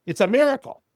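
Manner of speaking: high-pitched exclamation; imitated amazement. Agent reacting to therapy stories, imitated amazement. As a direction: exclaim it high, lightly acted.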